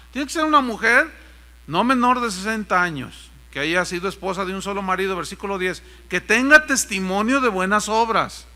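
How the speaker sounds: firm pulpit reading; emphatic scripture reading. Acted. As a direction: proclaim the requirements to a congregation. Reads scripture aloud.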